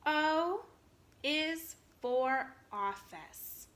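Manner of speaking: slow reading-along; slow choral reading. Shown as a demonstration. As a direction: read it with the kids. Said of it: "Read it with me".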